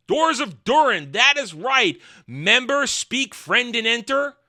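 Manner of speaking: high, loud, exclaiming parody voice; mock nostalgic cheerleader. Host mocking callbacks to the Doors of Durin, high, loud parody. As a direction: crow each callback high and punchy.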